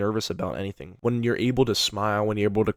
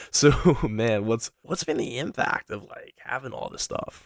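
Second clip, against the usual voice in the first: laughing through a serious impact question; jokey and giggly where it doesn't fit; playful tone, wrongly used. Shown as a demonstration. Coach showing a prospect the wrong playful tone, laughing. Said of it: "It would just come off wrong".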